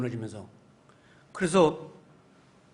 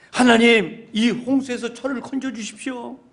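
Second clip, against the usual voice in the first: crying out in prayer; 5 semitones higher, 4 dB louder than usual. Pretend. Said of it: "소리내서 기도했어요".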